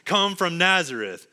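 doubtful, exclaimed question; disbelief. Acted. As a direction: question it as an amused skeptic. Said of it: "it's said in a disbelief, a, a doubt".

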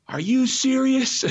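high, loud, slow shouted disbelief; outraged shout of disbelief; retold yell. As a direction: yell it at a driver who won't stop. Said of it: "and I yell".

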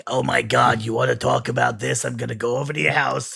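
lightly voiced New York Jewish accent; a hint of New York Jewish parent bluster. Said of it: "New York Jewish voice".

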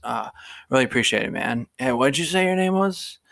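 put-on slurry, sighing drunk bro gushing; drunk frat guy. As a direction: drunk guy thanking the ride service. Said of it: "so the guys would always be like".

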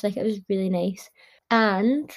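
talking with a runny nose; sniffly, nose running. Real, not acted. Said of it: "sorry, my nose is running so much".

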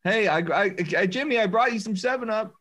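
a hint of a stammering nervous fan. Knocking on Jimmy's door with soda, lightly nervous. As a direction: fumble over the words, a bit high. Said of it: "Ask your boss for a case of soda".

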